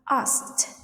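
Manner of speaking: "asked" ending in a t; "asked" pronounced like askt; final t sound. Shown as a demonstration. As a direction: say "asked" as one syllable, closing on t. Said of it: "after unvoiced sounds like p".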